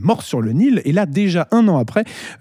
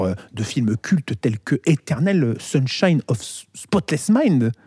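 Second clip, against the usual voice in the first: English accent; 4 semitones lower, 3 dB quieter, slower than usual. Shown as a demonstration. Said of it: "avec un accent anglais assez satisfaisant".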